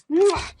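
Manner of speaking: loud smacking kisses; kiss sounds. Acted. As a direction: blow kisses into the mic.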